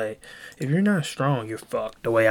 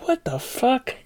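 shocked outburst; 13 semitones higher, slower than usual. Retold or imitated. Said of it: "I was like".

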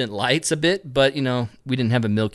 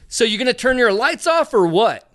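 higher, snippy demand with attitude; snotty attitude; 9 semitones higher, 4 dB louder than usual. Retold or imitated. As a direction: toss it off with attitude. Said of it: "kinda attitude".

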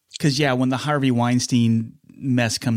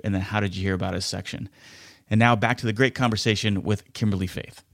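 smooth sponsor read for the podcast; 2 semitones lower than usual. Acted. Host reading a sponsor spot to listeners, smooth ad read. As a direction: sell the free trial to listeners.

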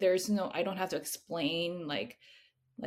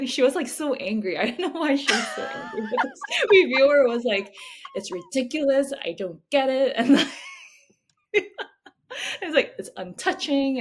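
high, loud, helpless laughter through the words; real giggles breaking up the sentence; laughing retelling; 8 semitones higher, 11 dB louder than usual. Real, not acted. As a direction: crack up while mockingly quoting a complaint. Laughing about an angry reviewer's complaint.

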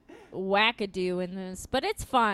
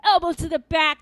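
a hint of a wrestling announcer; wrestling commentator; 6 semitones higher, 7 dB louder than usual. Shown as a demonstration. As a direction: call it like a ringside announcer. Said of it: "recap this like wrestling".

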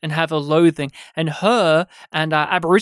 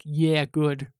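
smug approval; 3 semitones lower, 5 dB quieter than usual. Retold or imitated. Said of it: "I spent most of that scene being like".

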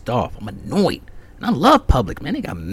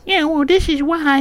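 much higher, louder put-on nasal-free white guy voice; mocking the older clerk's white-sounding voice; 5 dB louder than usual. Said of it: "he sounded white".

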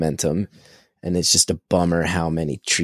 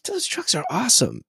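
high, thrilled exclamation; excited; 9 semitones higher, 4 dB quieter than usual. Retold or imitated. Dad shortening his truck excitement, excited. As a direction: blurt it out like a kid. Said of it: "me going".

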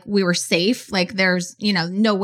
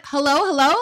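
imitated calling out; 5 semitones higher than usual. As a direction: mimic a caller checking if anyone's there. Retells caller checking the line.

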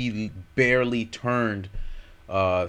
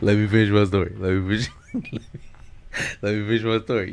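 trying not to laugh; much faster than usual. Real, not acted. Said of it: "why you laughing? I'm trying to be serious".

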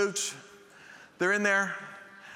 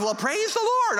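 much higher, simple-minded drawl; Forrest Gump impression; 12 semitones higher, slower than usual. Preacher mocking his own calm after nearly dying, Gump style. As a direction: say it like Forrest Gump, naive and unbothered. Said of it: "like Forrest Gump".

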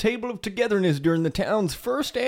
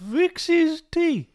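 surprised; 8 semitones higher, slower than usual. Acted. Father surprised by news.

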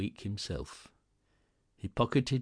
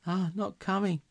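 teasing; 11 semitones higher than usual. A narrator's reading. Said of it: "said Missus Cratchit".

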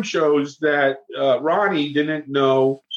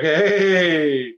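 slow, higher mock leer; menacing inmates; 5 semitones higher, slower than usual. Inmates taunting the fourteen-year-old, slow mock leer. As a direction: drawl the taunt at the new kid.

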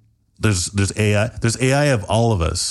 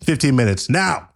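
YouTuber voice; 5 semitones higher than usual. Acted. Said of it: "Hey, guys, all you bitches".

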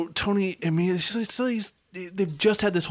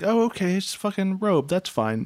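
mock acceptance; 5 semitones higher than usual. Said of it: "I was like".

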